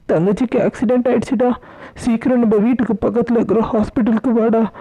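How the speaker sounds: fast, mildly tearful plea; acted distressed mother, rushing the bad news; tearful urgency. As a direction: break bad news urgently, on the edge of tears. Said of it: "ஏன் அழுகுற".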